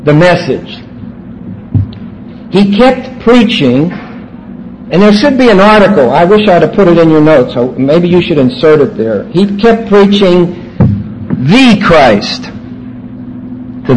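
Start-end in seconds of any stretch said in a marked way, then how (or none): 2.5-3.9 "kept" drawn out with a rising pitch; slow, stressed "kept". Shown as a demonstration. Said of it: "I emphasize the action of that verb". 9.3-10.8 "kept" hit firmly with a falling pitch; slow, deliberate weight on "kept"; stress on kept. Shown as a demonstration. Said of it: "I emphasize the action of that verb".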